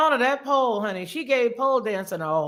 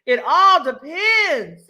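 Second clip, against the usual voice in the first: slow drawn-out quote; 2 semitones higher, 6 dB louder, much slower than usual. Retold or imitated. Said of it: "Sandy say".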